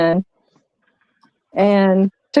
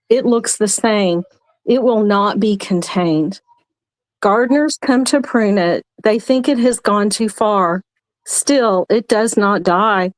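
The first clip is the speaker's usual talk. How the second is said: poem reading. Acted. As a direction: read it like a heartfelt poem. Reads her poem aloud.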